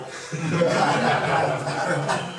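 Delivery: long put-on laughing fit. Shown as a demonstration. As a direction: laugh out loud, exaggeratedly.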